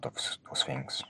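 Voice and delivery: trailing off into a whisper. Real, not acted. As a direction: breathe the last words out unvoiced. Trailing aside to the viewer.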